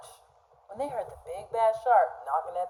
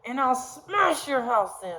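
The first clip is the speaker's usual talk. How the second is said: mock shark roar; 3 semitones higher than usual. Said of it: "roared the shark".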